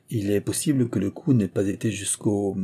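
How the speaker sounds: laisser « jusqu'au » en suspens; phrase qui s'interrompt sur « jusqu'au », inachevée; hésitant. A narrator's reading. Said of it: "il hésita". (« jusqu'au » traîné avec hésitation)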